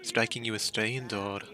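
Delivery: polite Scottish host; courteous lord of the manor; host NPC voice. Acted.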